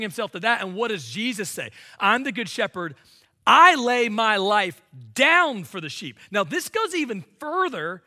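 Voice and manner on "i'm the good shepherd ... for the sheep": "I lay my life down" rung out louder, a declaration; proclaimed loudly. Acted. Preacher voicing Jesus to the church, louder proclamation. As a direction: announce it boldly to the room.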